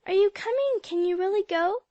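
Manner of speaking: high, loud, breathless eagerness; eager questions. Acted. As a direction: pepper her with excited questions. Girls swarming around eagerly.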